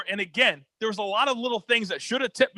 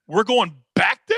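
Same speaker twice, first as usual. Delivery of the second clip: disbelief; 2 semitones higher, 5 dB louder than usual. Retold or imitated. Told to go back for Tillis.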